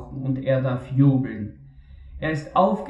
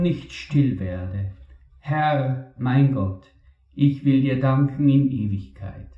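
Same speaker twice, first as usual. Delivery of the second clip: measured, solemn reading of a psalm; solemn scripture reading. Acted. Preacher reads the psalm aloud to the congregation, solemn and measured.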